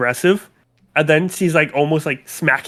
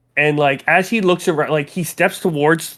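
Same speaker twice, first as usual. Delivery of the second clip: ordinary talk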